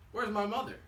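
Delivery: high, plaintive chick looking for mother; baby bird's question. Acted. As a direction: ask it like a lost baby bird. Lost baby bird asks for mother.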